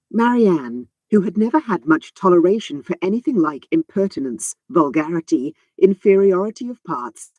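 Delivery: measured audiobook reading; story narration. A narrator's reading. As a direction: read it like a classic novel.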